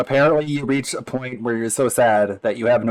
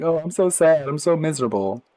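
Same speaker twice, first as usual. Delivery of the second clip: mock whiny sad; 6 semitones higher than usual. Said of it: "They're like".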